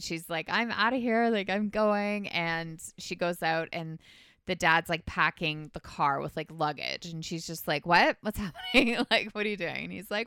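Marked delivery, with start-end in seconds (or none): 0.5-2.3 1 excited Katie. Retold or imitated. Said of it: "She's so excited". 7.9-9.8 1 baffled daughter. Retold or imitated. Daughter sees dad packing car.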